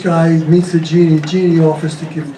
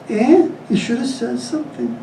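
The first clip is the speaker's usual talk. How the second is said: put-on old mother voice; 6 semitones higher, 4 dB quieter than usual.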